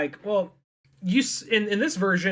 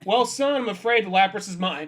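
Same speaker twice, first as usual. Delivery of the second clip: condescending; 2 semitones higher than usual. Retold or imitated. Blue condescends to kid.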